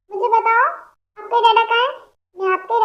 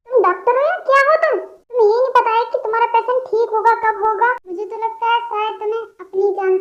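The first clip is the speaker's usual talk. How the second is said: angry outburst; 3 semitones higher than usual. Acted. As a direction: blast the doctor for not knowing. Relative yells at clueless doctor.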